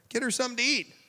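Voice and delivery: high, loud joyful burst; delighted exclaim. Acted. Jesus to the parents, joyfully exclaiming. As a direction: laugh it out with joy.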